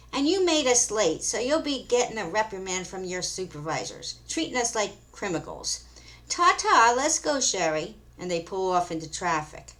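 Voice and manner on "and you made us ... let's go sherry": put-on huffy valley girl. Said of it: "huffs and says to him".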